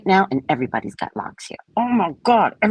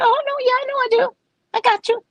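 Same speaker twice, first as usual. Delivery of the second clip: much higher, airy Oh no yeah; breezy self-assured; faster than usual. Retold or imitated. Answering strangers who praise her locks, airy high confidence. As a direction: brush off the praise with playful confidence.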